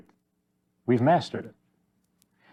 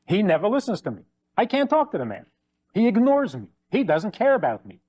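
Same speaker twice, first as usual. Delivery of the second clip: lightly acted aggrieved wife, higher pitch; wife's complaint; 4 semitones higher than usual. Wife complains about her husband to the counselor, aggrieved. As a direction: complain about him, voice lifting.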